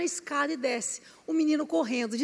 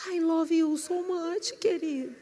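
tender love words; 5 dB quieter than usual. Retold or imitated. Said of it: "sua esposa não é".

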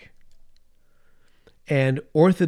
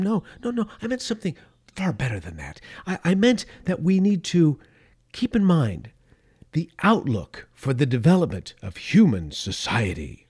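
a lightly voiced Soviet leader backpedalling, one line dropped to a hushed whisper; mock Khrushchev explaining; 2 semitones higher than usual. Khrushchev correcting the West, a lightly voiced mock explainer. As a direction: play him smoothing things over, half in a whisper.

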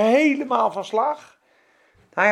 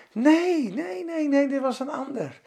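high, frantic denials, fading softer; panicked denial; 5 semitones higher, 4 dB quieter than usual. Acted. Preacher voicing Peter's denial to the maid, high and frantic. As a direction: Peter pushing away the accusation in panic.

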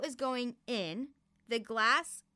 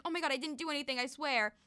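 higher-pitched imitation of a panicked sister; mock panic; 5 semitones higher, faster than usual. Younger sister denying blame after the accident, mildly imitated panic. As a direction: lightly act out panicked denial. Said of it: "she looks, and she panics".

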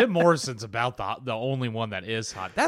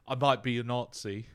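lightly put-on British voice; half-hearted English accent; badly faked British rock star; a rock musician's accent. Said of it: "I'm really good at accents".

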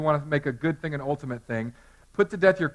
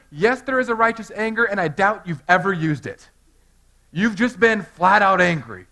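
pointed reply; 3 semitones higher, 5 dB louder than usual. Retold or imitated. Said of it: "what I always tell people is".

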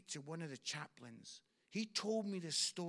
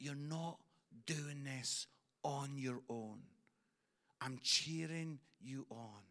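voicing God tenderly; 5 semitones lower than usual. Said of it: "He says".

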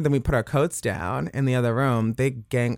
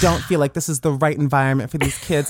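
put-on, higher-pitched complainer; prim mock caller voice, raised in pitch; concerned-neighbor phone voice; 5 semitones higher than usual. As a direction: play a Karen reporting the kids next door. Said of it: "the voice you were doing on the phone".

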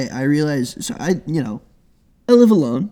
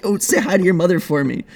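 higher, lightly put-on Boston bro accent; 5 semitones higher than usual. Shown as a demonstration. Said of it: "like, Boston bros say".

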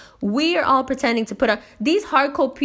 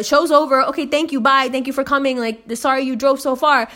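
raised-pitch, retold polite brush-off; brisk dismissal; 5 semitones higher, 5 dB louder than usual. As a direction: wrap up and usher them out. Retelling sending the guests out.

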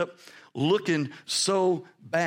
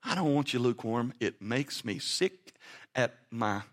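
voicing God; 4 semitones lower than usual. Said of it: "And so he says".

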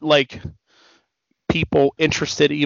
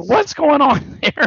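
surprised; 9 semitones higher, much slower than usual. Retold or imitated. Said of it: "I was like".

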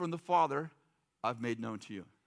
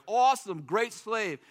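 loud, higher cheer of praise; excited cheer; 4 semitones higher, 5 dB louder, slower than usual. Retold or imitated. Church friends cheering a fellow believer, excited praise.

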